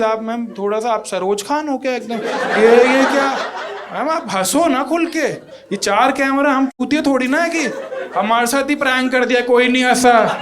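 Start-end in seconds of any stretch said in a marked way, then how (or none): 2.1-10.4 loud mock exasperation. Real, not acted. Teasing unlaughing judges loudly.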